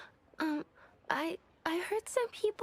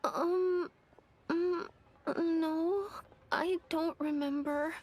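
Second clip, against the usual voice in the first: upset; 6 semitones lower, slower than usual. Acted. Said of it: "Don't be upset".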